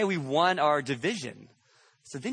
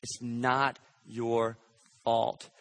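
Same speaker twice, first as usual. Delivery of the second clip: tender insistence; 3 semitones lower, much slower than usual. Retold or imitated. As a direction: draw it out gently. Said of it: "He says it again".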